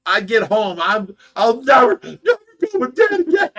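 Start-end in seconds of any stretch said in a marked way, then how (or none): 1.3-3.5 high, loud hammed-up sobbing; exaggerated tearful vow; mock crying. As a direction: wail it like a bawling kid, half laughing. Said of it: "I'm crying the rest of the night".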